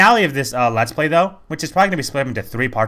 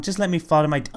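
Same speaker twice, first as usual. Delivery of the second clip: lightly mocked emo whine, a little higher; Mimi; 4 semitones higher, 3 dB quieter than usual. Quoting minion about to fall, mock emo. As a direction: imitate a mopey minion giving up. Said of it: "they're very emo and suicidal".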